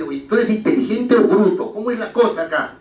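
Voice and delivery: half-laughing mock provocation; mock challenge. Arguer demanding an answer from a rival, mock taunting. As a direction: jab at him in jest. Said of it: "Evidentemente lo está insultando".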